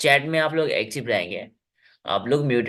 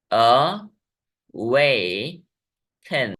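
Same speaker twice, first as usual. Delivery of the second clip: extra slow demo; much slower than usual. Shown as a demonstration. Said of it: "तीन वेवल sounds वाला शब्द है".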